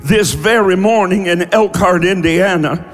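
forceful, sustained preacher's proclamation; prophetic prayer declaration. Real, not acted. Prays and declares prophecy to congregation.

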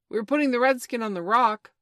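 high, loud call across the water. A narrator's reading. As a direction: shout it back to the captain. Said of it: "Smee called out".

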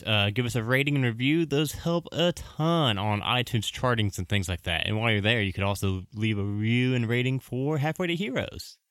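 rushed and short of breath; out of breath from talking fast. Real, not acted. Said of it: "Whew, I am out of breath".

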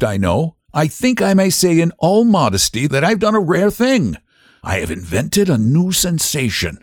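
a host hinting at his secret; general's voice. A narrator's reading. General teases his new sensation.

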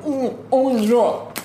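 hammed-up moaning food bliss; mock ecstatic eater, drawn out, laughing; imitating Chris Messina. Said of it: "Chris Messina ... is just like".

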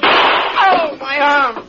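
loud pained yelp; cry of pain. Acted. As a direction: cry out as the arm is hit. Outlaw shot in the arm.

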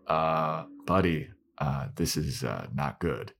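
low, soft and halting; hushed, uneasy acted aside; hesitant bad news. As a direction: break bad news gingerly, with lots of uhs. Henchmen nervously break bad news.

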